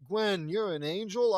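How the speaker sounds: high, loud astonished question; acted shocked exclamation; gasping surprise. A narrator's reading. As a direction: ask it in amazement. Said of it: "we gasped".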